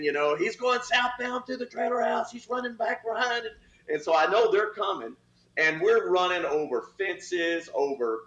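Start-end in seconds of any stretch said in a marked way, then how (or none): 0.3-3.5 radio shout. Retold or imitated. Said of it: "I hear all the guys screaming".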